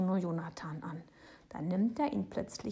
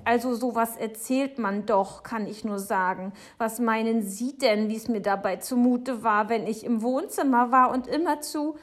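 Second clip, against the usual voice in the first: loud, raised, indignant grumbling; indignant Frau Segebrecht; 4 semitones higher, 8 dB louder than usual. Acted. Neighbour explaining her fright to Papa, indignant and loud. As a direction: play an affronted woman working herself up.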